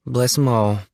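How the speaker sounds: lightly voiced rattled country boy; nervous Jimmy. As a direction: blurt it out uneasily. Jimmy speaking.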